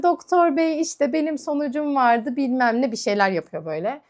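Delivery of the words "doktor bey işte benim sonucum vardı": mock fawning patient. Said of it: "Ya ne kadar ikiyüzlüsün ya".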